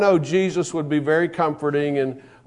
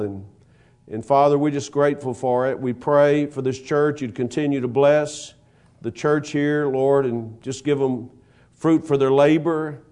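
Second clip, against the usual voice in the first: prayer. Acted. Leads closing prayer.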